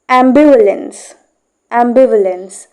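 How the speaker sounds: "Ambivalence" stressed on "biv", the following vowel reduced; careful model of "Ambivalence", am-BIV-uh-lence; stress with schwa. Shown as a demonstration. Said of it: "We will stress right here".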